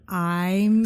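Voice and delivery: stuffy head-cold voice; talking through a head cold. Real, not acted. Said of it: "kind of a head cold".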